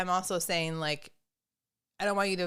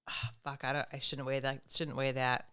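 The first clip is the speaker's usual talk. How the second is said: breathless whisper of shock; whispered dismay; 4 semitones lower, 7 dB quieter than usual. Retold or imitated. Woman staring at her scale number, shocked whisper. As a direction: hiss it under your breath at the number.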